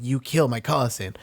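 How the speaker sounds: put-on light Spanish accent, vengeful; a hint of a Spanish swordsman accent; Inigo Montoya Spanish accent. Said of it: "like, Inigo Montoya style".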